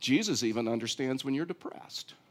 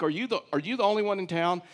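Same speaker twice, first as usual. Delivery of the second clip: incredulous quick retort; 4 semitones higher, faster than usual. Retold or imitated. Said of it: "but they're like".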